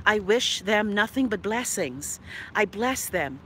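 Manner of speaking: slow, measured false piety; mock-sincere blessing. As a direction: bless them slowly, pretending to mean it. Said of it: "let me lie to y'all".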